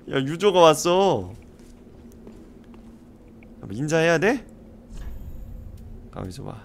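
ordinary delivery

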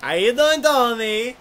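bright, high little dog voice; lightly voiced cheerful dog. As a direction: greet them like a perky chihuahua. Chihuahua dog greets them.

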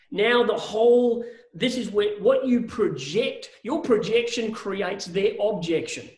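each word slowed and leaned on; slow emphatic maxim. Real, not acted. Coach slowing down to drive home the projection maxim. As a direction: land the maxim slowly, word by word. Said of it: "coach stresses his key maxim".

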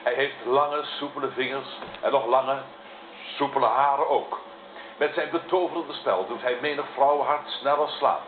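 show announcer. Acted. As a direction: announce the guest with a flourish. Presenter announces the love poem.

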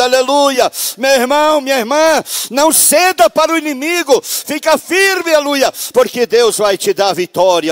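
loud, high shouted preaching; fervent revival preacher crying out; preaching at full force. Acted. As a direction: proclaim the victory to the church at full voice. Climax of testimony, preaching.

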